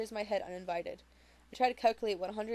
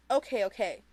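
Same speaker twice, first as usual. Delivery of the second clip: reluctant; 6 dB louder than usual. Acted. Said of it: "like everyone else is begging her".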